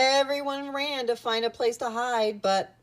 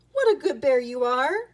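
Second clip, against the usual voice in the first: higher, louder proud teacher; delighted praise; 6 semitones higher, 7 dB louder than usual. A narrator's reading. Miss Cluck to Boris after his rescue, delighted praise. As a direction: gush it like a proud storybook teacher.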